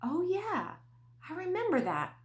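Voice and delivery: high, bright recalling; remembering the Lord's earlier words; sudden realization. Retold or imitated. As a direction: lift up as it clicks. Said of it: "And I thought".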